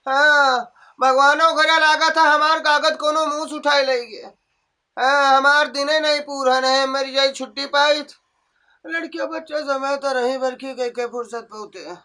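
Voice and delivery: a grumbling sick mother-in-law who moans and complains; lightly voiced ailing old woman.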